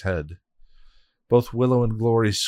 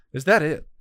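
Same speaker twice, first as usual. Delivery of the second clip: high, loud taunting scorn; mocking; 6 semitones higher, 4 dB louder than usual. Hell god taunting the witch, mocking. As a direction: sneer down at the witch. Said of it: "Glory mocked".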